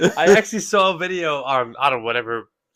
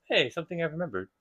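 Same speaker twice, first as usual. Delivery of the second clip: quick repeat; 3 semitones higher, 6 dB quieter, faster than usual. Shown as a demonstration. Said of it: "You just be like".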